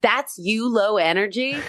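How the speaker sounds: incredulous question, pitch lifted high; lightly acted astonishment; mock disbelief. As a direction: imitate a baffled onlooker. People astonished at her low energy.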